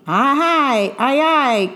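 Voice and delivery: lightly voiced eager bosun; answered brightly. A narrator's reading. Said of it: "And Zack answered brightly".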